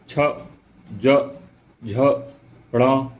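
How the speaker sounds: छ, ज, झ, ण one at a time, tongue to palate; palatal sound demonstration. Shown as a demonstration. Teacher demonstrating palatal letters, छ, ज, झ, ण spaced apart. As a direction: sound out छ, ज, झ, ण separately, pausing between each. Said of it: "इनमें सब में तालु से हमारी जीभ टकरा रही है".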